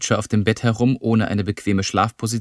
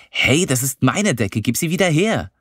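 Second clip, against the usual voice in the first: indignant protest; 6 semitones higher than usual. Acted. Lilly, catching him with her sheet, demands it back indignantly. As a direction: claim the blanket back, offended.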